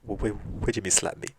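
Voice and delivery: mildly baffled, stumbling over the question; a touch of puzzled disbelief, halting; confused. Retold or imitated. Wife questions husband about slapping her, mildly confused.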